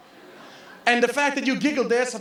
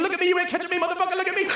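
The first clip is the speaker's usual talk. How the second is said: cocky rabbit; 4 semitones higher, much faster than usual. Acted. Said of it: "He was thinking".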